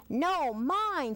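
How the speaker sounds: quick, sharp snap; snappy beetle. Acted. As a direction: snap back at the others. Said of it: "snapped the beetle".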